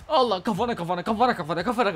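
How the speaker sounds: a laughing burst of surprise; laughing exclaim. Real, not acted. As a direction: laugh out the word. Laughing at a hit.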